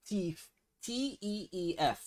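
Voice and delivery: Teeth said as "teef", f for th; Toronto slang pronunciation. Shown as a demonstration. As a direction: spell out T E E F slowly. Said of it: "I'm gonna spell it for you".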